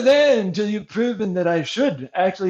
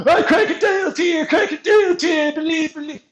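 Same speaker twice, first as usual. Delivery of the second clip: hammed-up fake sobbing plea; mock whining; 6 semitones higher than usual. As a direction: imitate a crybaby begging. Mocking a whiny opponent.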